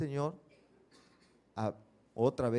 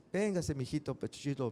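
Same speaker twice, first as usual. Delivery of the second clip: suave y lento, consolando; mamá cariñosa; 4 dB quieter than usual. Retold or imitated. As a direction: como una madre que abraza a su hijo. Mamá consuela y abraza al niño. (mamá tranquilizando al niño, voz suave y lenta)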